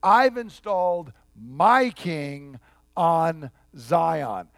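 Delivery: a lightly voiced God, slow and weighty. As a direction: declare it slowly as the voice of God. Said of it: "he says".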